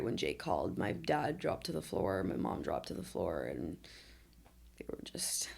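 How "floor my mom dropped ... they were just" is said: getting emotional. Real, not acted. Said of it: "this is when I get emotional".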